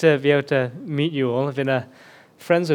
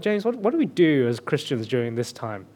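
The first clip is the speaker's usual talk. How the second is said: higher, louder, building bewilderment; higher, louder retold friend's exasperation; exasperated friend; 4 semitones higher, 3 dB louder than usual. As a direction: voice a friend at wit's end, peaking on what has happened. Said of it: "they were like".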